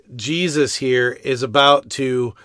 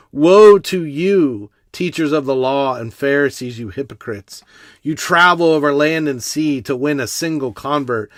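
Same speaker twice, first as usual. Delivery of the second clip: grieving parent's warning. Acted. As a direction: cry out each Woe like a heartbroken father. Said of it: "as a parent with a broken heart".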